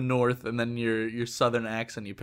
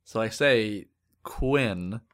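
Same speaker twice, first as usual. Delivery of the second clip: slow careful Quinn; Quinn said slowly; 2 semitones lower, much slower than usual. Shown as a demonstration. Telling the cashier her name, slow and careful. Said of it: "they write down Queen".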